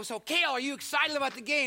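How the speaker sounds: put-on high, loud playful asking of a child; teasing question. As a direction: needle the kid about the big game.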